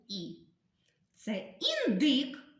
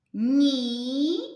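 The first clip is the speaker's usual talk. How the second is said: «Ні-на» read louder in two drawn syllables; 3 semitones higher, 6 dB louder than usual. Shown as a demonstration. Teacher modelling syllable reading for children, louder. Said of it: "спробуємо прочитати ціле слово".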